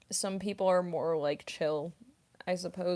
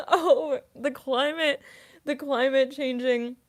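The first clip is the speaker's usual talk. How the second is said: meme quote; 7 semitones higher, 6 dB louder, slower than usual. Retold or imitated. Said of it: "meme reference".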